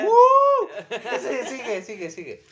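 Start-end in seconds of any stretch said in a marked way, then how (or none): 0.1-0.7 high, loud whoop; whooping cheer. Real, not acted. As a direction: let out a wild whoop. Cheering during the banter.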